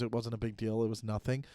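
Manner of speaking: low, soft retold reassurance; calmed down. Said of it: "she was calmed down at that point".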